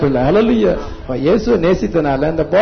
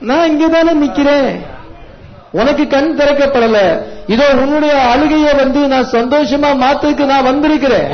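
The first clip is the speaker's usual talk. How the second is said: raised, higher preaching voice as Jesus; voicing Jesus; 5 semitones higher than usual. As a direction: speak for Jesus to the weeper, pitched up and insistent. Preacher voices Jesus comforting the weeper.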